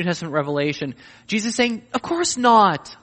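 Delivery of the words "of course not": emphatic. Acted. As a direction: hammer the denial home. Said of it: "it's emphatic".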